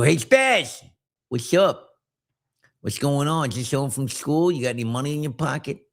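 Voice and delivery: a touch of a lisping tough-guy taunt; lightly mock the bully's side-mouth lisp. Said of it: "he had this lisp like this".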